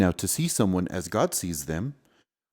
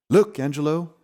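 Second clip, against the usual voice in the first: bright, loud and high, pointing at the sky; excited call; 7 semitones higher, 9 dB louder than usual. Acted. Thomas calls out to Angelo about the shooting star, excited. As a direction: cry out with delight at the shooting star.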